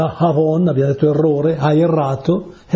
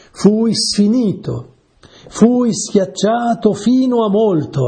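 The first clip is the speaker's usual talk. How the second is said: slow, raised and drawn out, like reciting a psalm; solemn scripture reading; 8 semitones higher, slower than usual. Acted. Preacher reads the psalm to his listeners, slow and solemn. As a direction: lean into each word of the verse, slowly.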